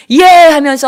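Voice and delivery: loud, high, drawn-out whoop; imitated roar of victory; imitated victory cheer. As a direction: shout like a triumphant army. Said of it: "승리의 환호성을 올리는".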